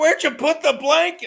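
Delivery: high-pitched yell. Retelling asking someone where the blanket went: imitating own yelling. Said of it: "I'm yelling at Ken, I'm like".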